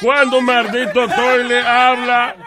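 indignant disbelief. Real, not acted. Old man objecting to a talking toilet joke, indignant. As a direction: protest the absurdity, high and forceful. Viejo indignado por el chiste.

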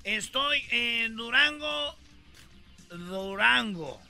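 put-on slurred, slow drunk reporter. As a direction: play a rambling drunk. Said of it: "Estoy borracho".

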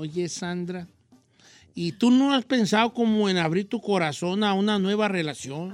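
sweet little voice. Pretend. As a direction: coax her gently, a hint of a flirting crooner. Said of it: "con esta vocecita".

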